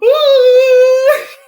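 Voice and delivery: high loud imitated wailing cry; falsetto wail. Panicked doctor retold, with a loud high mock wail. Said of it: "and he's like".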